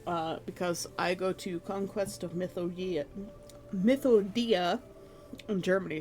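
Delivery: talking round a tablet in the mouth; words blurred by a tablet on the tongue; mouth full. Real, not acted. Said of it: "I got this vitamin C tablet in my mouth".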